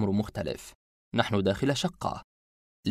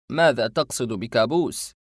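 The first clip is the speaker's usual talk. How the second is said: indignant retort; 4 dB louder than usual. Acted. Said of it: "فأجابني باستنكار".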